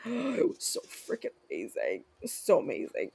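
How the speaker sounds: soft, breathy rave after a gasp; hushed, swooning delight; awed hush. Real, not acted. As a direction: gush under your breath, savoring the memory. Raving about a favorite dish.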